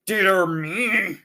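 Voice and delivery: a mild flustered exclamation; Oz startled. A narrator's reading. The wizard reacting to the news, lightly flustered. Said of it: "said the voice".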